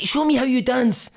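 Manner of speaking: a hint of a slow, sneering challenge; mocking taunt. Manager daring the player to dance, lightly voiced slow taunt. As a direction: goad him slowly. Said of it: "He's like".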